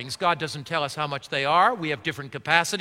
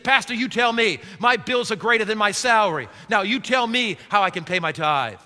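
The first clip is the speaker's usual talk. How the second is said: man's complaint; 2 semitones higher than usual. Retold or imitated. Pastor voices man throwing bills.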